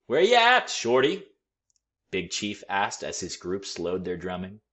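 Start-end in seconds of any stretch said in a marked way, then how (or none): 0.1-1.3 high, loud call across the street. A narrator's reading. Big Chief calls out to Shorty, high and loud. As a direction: sing out a greeting from afar.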